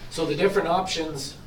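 hoarse, throat-cleared voice. Real, not acted. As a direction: speak through a hoarse throat. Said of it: "losing my voice".

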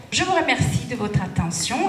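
ordinary delivery

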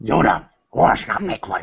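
put-on little-sage impression; Yoda. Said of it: "try to do a Yoda voice".

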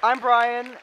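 high, loud welcome to a crowd; calling out. Real, not acted. Host welcomes a conference audience back, calling out high and loud.

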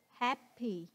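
happy slowly, stress on HAP; stress on first syllable. Shown as a demonstration. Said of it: "là nhấn vần, vần một".

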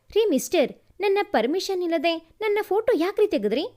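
brisk, mildly indignant demand; indignant challenge. Acted. Young woman confronting a man over her photo, indignant. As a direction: confront him, quick and affronted.

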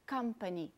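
"company" with the weight on COM; stress on first syllable. Shown as a demonstration. Teacher shows learners the tonic syllable, stressing the start of "company". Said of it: "é a que você tem que intensificar".

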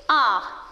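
"ar" said alone as one syllable; isolated syllable. Shown as a demonstration. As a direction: set "ar" apart between pauses. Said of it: "on a la première syllabe". (« ar », syllabe bien détachée)

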